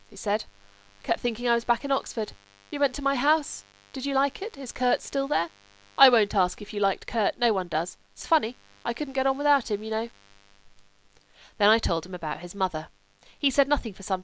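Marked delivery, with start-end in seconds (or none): 1.0-10.1 higher-pitched, weak invalid's voice; lightly voiced Sebastian. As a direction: lightly play a sick friend, pitched up.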